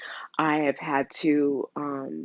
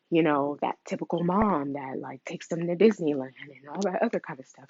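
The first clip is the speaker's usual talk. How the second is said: getting emotional; 5 dB quieter than usual. Real, not acted. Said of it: "Sorry, I'm getting emotional".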